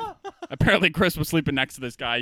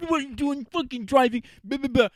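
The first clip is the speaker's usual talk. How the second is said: imitating a scream; 9 semitones higher than usual. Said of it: "going screaming at this".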